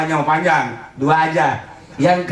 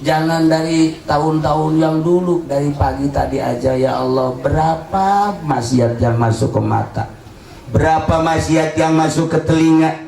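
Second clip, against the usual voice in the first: repentant prayer; 3 semitones lower than usual. Acted. Leads a tearful prayer of repentance.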